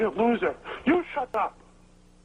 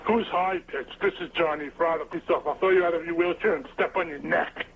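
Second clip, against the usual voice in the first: lower, rough-edged tough-guy voice; gruff voice; 5 semitones lower than usual. Retold or imitated. Caller doing a gruff Johnny-style impression, lower and rough. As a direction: growl it out like a gravel-voiced goon. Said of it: "with his gruff voice".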